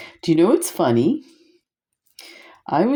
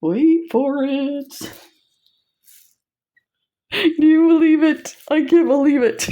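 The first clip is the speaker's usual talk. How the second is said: much higher, louder squeal of delight; real overjoyed excitement; thrilled; 12 semitones higher, 4 dB louder than usual. Real, not acted. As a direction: gush with disbelief. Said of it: "I'm tearing up".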